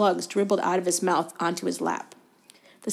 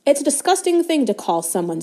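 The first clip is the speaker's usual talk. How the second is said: disgusted; 6 semitones higher than usual. A narrator's reading. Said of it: "said Ron".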